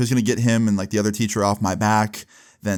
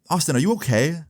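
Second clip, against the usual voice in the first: higher-pitched mock concerned teacher; concerned questioning; 6 semitones higher than usual. Teacher checks on a red-eyed student, acted concerned questioning.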